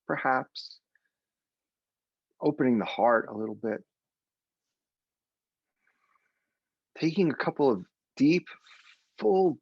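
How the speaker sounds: gentle meditation guide voice; soothing meditation opening; guided meditation. Acted. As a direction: settle them into their seats. Leads a meditation.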